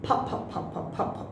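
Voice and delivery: unvoiced, breathy "pa, pa, pa" with the air pushed out; whispered puffs of "pa". Shown as a demonstration. Teacher demonstrating the puff of air in "pa" for students. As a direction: push air out on each "pa". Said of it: "we have to pronounce this one".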